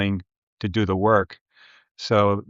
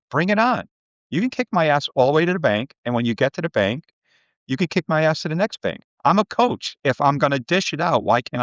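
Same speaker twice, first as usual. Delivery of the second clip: fired up; 5 semitones higher than usual. Real, not acted. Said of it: "fired-up boast about taking tough coaching".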